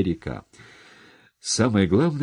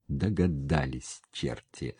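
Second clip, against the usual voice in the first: low, slow, soft satisfaction; quietly approving, dropping away softly; pleased; 3 semitones lower, 7 dB quieter than usual. A narrator's reading. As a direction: say it with a contented smile. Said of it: "довольно улыбнулся Сапко".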